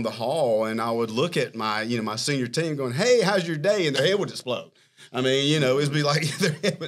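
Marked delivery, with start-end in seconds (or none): 2.9-3.9 mock cheery greeting. Cheery greeting to his team.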